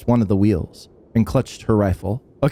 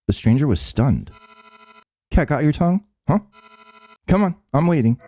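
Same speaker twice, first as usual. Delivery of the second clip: taunting Hachi; 5 semitones higher than usual. Acted. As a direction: goad him on.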